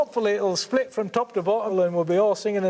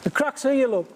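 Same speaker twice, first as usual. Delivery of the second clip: eager, caught up in the moment; excited; 2 semitones higher than usual. Real, not acted. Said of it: "I'm getting excited myself now".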